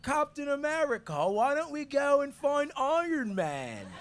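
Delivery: hammed-up Cockney chimney sweep; Cockney accent. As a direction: ham up the Cockney urchin. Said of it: "Do it again".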